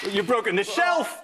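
laughing. Real, not acted. Shelf broke during live demo.

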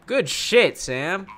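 loud praise. Real, not acted. Same praise repeated louder.

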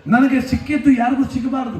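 ನನಗೆ ಸಿಕ್ಕಿದ್ದು ಯಾರಿಗೂ ಸಿಕ್ಕಬಾರ್ದು flung out as one shout, ನನಗೆ hit hardest; stage shout of the selfish motto; shouted in one breath. Shown as a demonstration. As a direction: hurl the whole line at the crowd.

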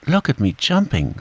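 put-on mild high squeak of a small child; a touch of squeaky little-kid voice; excited little squeak. A narrator's reading. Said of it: "squeaked Roo".

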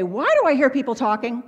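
lightly voiced teacher calling out; a hint of a scolding teacher; teacher to class. Shown as a demonstration. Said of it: "a teacher and you're saying to the class".

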